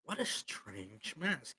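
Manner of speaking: slow, softened line in character; lightly voiced, measured curiosity about the mask; curious swordsman. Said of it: "he turns and he goes".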